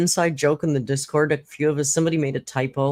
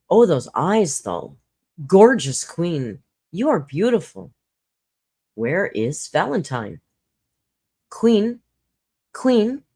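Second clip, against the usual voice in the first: gushing praise; 3 semitones higher, 4 dB louder than usual. Pretend. Gushing over her photo.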